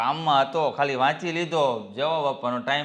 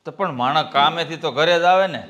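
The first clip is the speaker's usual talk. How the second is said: louder, protesting; defensive reply; 7 dB louder than usual. Acted. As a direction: push back on her reproach. Husband answers wife's complaint.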